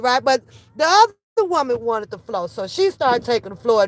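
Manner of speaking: normal talking voice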